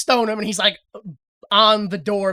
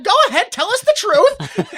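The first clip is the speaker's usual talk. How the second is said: high, loud imitation of an impatient crowd; mock mob demand; 11 semitones higher, 5 dB louder than usual. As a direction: press the suspect, hammed-up. Acts out mob demanding answer.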